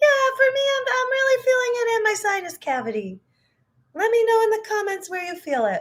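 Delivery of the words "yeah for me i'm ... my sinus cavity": high cartoon mouse head voice. Explaining where head voice resonates, still talking in high Mickey Mouse voice. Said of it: "I'm gonna stop talking like that".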